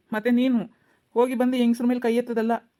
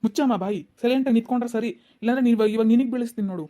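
angry threat. Acted. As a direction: shut her up with a threat. Policeman threatens pleading mother.

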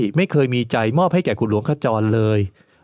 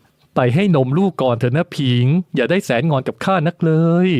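the lord's voice, higher and gently pleading; coaxing lord; 5 semitones higher, 3 dB louder than usual. Acted. The lord coaxing Ping to nurse their baby first. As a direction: coax a sulking woman to go feed the baby.

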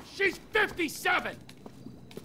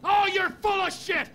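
angry retort; 4 semitones higher than usual. Acted. Argument between two partners.

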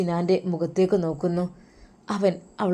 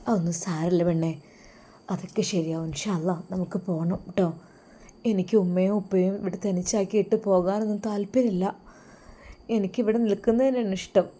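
calm her down quietly; husband softly reassuring his hurt wife; 5 dB quieter than usual. Acted.

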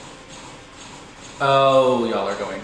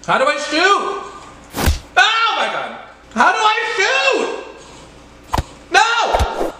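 very high, loud, strained squeal; panicked squeal; 5 dB louder, slower than usual. Real, not acted. Gamer under fire, unable to shoot, squealing in panic. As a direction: shriek it helplessly, can't work the game. Can't figure out game controls.

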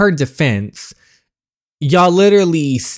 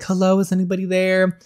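calling out; 7 semitones higher, faster than usual. Acted. Stranded woman calls out.

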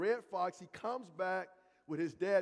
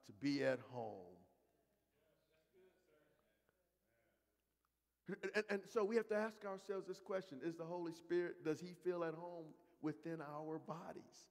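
soft reflective; 7 dB quieter than usual. Acted. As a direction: pull them in with a hush. Preacher drops to soft reflection.

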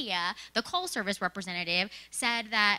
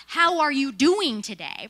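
louder and slow, every word spelled out; all caps; 4 semitones higher, 9 dB louder than usual. Retold or imitated. Reading out the Post-it her trainer stuck on the monitor, loud and slow. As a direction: read it like a giant sign. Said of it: "in all caps".

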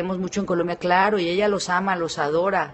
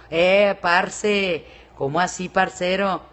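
lightly imitated Colombian accent; much slower than usual. Shown as a demonstration. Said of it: "Me encanta el acento colombiano". (acento colombiano, intento leve)

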